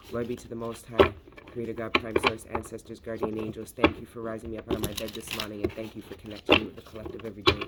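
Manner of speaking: earnest, steady opening prayer; a devotional invocation, rushed in places. Acted. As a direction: call on the ancestors with reverence. Opening prayer to the Most High.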